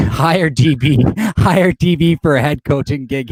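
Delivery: laughing while talking. Real, not acted. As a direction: laugh through the words. Laughing at a chat comment.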